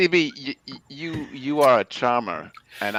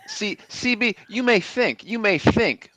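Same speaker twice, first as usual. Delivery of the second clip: a hint of a southern accent, earnest praise; 4 semitones higher than usual. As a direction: play the southern wingman vouching for C B. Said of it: "how much Brick's accent has changed".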